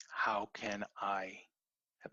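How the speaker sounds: breathy whispered question to yourself; slow hushed whisper. Shown as a demonstration. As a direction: whisper it slowly, like a private thought.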